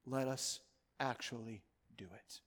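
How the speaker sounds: slow, hushed whisper; urgent hushed plea; whispered appeal. Acted. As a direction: whisper it like a shared resolve. Intimate closing call to act.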